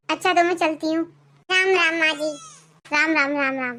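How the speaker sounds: teary parting words; tearful goodbye. Acted.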